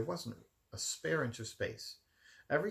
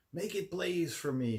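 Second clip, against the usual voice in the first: Cruella voice; 8 semitones higher, 4 dB louder than usual. A narrator's reading. Cruella demands more fire.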